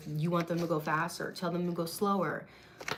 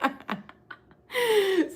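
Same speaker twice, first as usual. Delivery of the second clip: laughing through the words, slower; giggling while she reads the card; 11 semitones higher, 8 dB louder, slower than usual. Real, not acted. Laughing to viewers over a tarot card.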